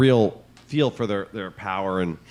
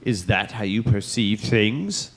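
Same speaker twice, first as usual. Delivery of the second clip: weighty commanding emperor; slower than usual. Retold or imitated. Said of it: "he's like".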